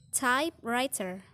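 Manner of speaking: "typewriter" with TYPE stressed; first-syllable stress. Shown as a demonstration. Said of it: "fall on the first syllable".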